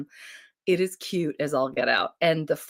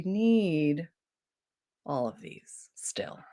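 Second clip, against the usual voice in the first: whisper; 4 dB quieter, much slower than usual. Acted. Quietly asking about daughter's books.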